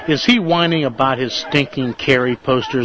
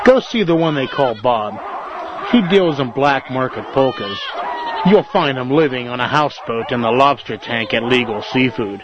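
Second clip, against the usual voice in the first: deadpan sarcastic tip-off. Acted. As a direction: send them off with a sarcastic lead. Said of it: "Sarcasm doesn't suit you".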